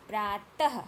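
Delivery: प्रातः with an audible h after त; visarga demonstration. Shown as a demonstration. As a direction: sound out the breathy ह ending of प्रातः. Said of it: "त के बाद ह". (प्रातः के अंत में ह की ध्वनि)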